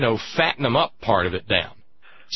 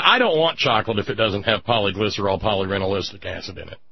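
mock sincere; 2 semitones lower than usual. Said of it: "That's good, good pronunciation".

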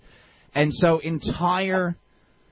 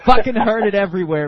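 exasperated; 2 semitones higher, 8 dB louder than usual. Real, not acted. Exasperated outburst.

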